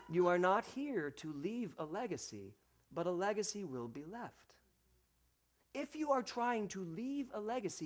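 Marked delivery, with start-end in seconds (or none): 0.1-4.5 slow, stressed NOT in "You are not here"; slower, deliberate repeat. Shown as a demonstration. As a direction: spell it out slowly so it sinks in. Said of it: "I'll say it again just for those of you".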